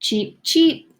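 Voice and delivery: a sick little duck's cheep; duck chirp. Acted. Duck's cry in the story.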